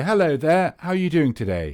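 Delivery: Northern Irish accent. Imitating a Northern Irish person greeting someone: Northern Irish accent. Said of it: "a Northern Irish person say".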